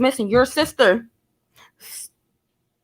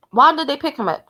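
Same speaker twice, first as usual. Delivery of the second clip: higher, insistent why; pressing repeat; 4 semitones higher than usual. Real, not acted. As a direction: push the question harder. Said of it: "repeats the question, pressing".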